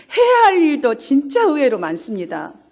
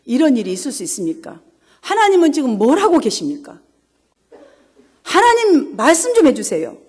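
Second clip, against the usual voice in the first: a mildly pushy prayer, pressing God for answers; half-scold God as you pray, without real anger; demanding prayer. Retold or imitated. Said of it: "막 협박하는 기도를 합니다". (하나님께 따지듯 살짝 다그치는 기도)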